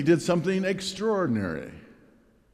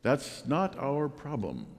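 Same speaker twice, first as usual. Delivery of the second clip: softened quote; 6 dB quieter, slower than usual. Retold or imitated. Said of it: "softens it a bit".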